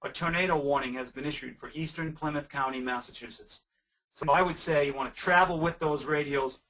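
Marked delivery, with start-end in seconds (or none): 0.0-3.6 robotic weather radio announcer; flat computer-voice broadcast; computerized voice. Retold or imitated. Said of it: "in that computerized voice like".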